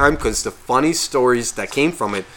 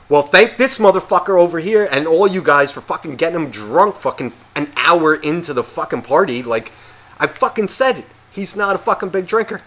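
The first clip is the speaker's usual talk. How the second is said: retold angry retort; 4 semitones higher than usual. Retold quarrel with pissed-off friends.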